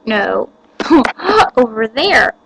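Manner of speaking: usual speaking voice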